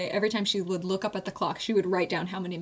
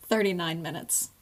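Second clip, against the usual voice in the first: haiku line reading; 3 semitones lower than usual. Shown as a demonstration. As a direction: read it like the haiku's closing line. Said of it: "Oh, that has five syllables".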